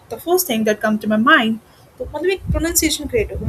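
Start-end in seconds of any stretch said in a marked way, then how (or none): 0.1-1.5 "come to my mind" linked into one flow; linked, flowing phrase. Shown as a demonstration. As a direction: join the words through to "mind" without gaps. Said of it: "एक flow create हो गया".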